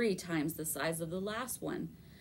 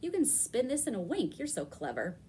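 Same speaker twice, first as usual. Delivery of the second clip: put-on wheedling girl; 5 semitones higher than usual. Opal flattering the spinner.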